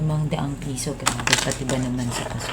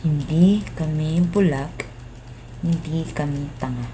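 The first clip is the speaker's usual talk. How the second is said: slow, each hindi hit hard; defiant emphasis; 4 dB louder than usual. Acted. Worker telling officials they are not fools, slow and firm. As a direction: plant your feet and say it straight.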